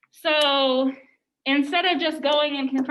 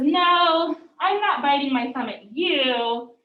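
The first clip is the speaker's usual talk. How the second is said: louder mock-innocent denial, leaning on not; sarcastic denial; 5 dB louder, slower than usual. Samson mockingly denying the insult to Abram, sarcastic and louder. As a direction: push the denial out with a sarcastic edge. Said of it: "he's kind of being, like, sarcastic here".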